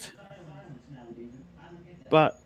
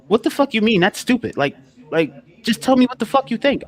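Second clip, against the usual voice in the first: higher, pushy imitation of an annoyed asker; mock outraged demand; 8 semitones higher than usual. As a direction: play the offended friend, indignant and high.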